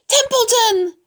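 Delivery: high, loud yell of the name; scream. A narrator's reading. Wilbur wakes the sleeping rat, urgent scream. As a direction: scream it to wake him. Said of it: "screamed Wilbur".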